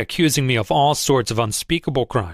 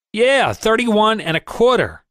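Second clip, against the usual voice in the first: bitter sarcasm; 8 semitones higher, slower than usual. A narrator's reading. Angry investor sneers back.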